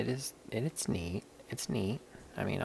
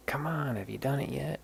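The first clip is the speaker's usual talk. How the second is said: higher-pitched nagging question; mock pester, pitched up; imitated pestering; 7 semitones higher than usual. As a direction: mimic someone impatiently pushing. Imitates someone pestering the speaker.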